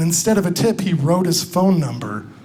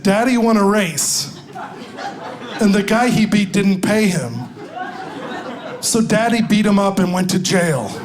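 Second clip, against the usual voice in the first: put-on Southern accent. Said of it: "a pretty Southern girl like you".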